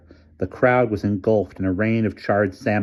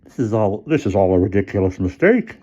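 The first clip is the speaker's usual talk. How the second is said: raised, insistent protest; insisting man; 5 dB louder than usual. A narrator's reading. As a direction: insist it's all a mistake. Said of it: "insisted Mister Sturgeon".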